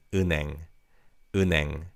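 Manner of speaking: 은행 said as 으냉, the n carried onto the second syllable; linked pronunciation. Shown as a demonstration. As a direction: let the n of 은행 glide into 행, like 으냉. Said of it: "the 니은 받침 ... carries over to the second syllable".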